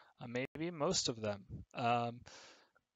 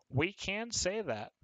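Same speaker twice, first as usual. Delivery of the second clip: whisper; 7 semitones higher than usual. Shown as a demonstration. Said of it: "aside to class".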